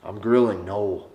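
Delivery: leaning into North Dakota "no"; firm refusal in North Dakota accent. Acted. Coach refusing a woman's dinner wish, North Dakota accent. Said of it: "I'm looking at her and say".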